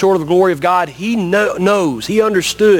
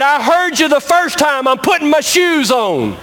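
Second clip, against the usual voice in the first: annoyed centipede; 8 semitones higher than usual. Acted. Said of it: "And he said".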